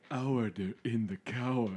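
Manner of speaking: lightly voiced judge; understated take on a courtroom call; a hint of a judge calling order; Sandra Day O'Connor impression. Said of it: "I'd like to do my impression of Sandra Day O'Connor".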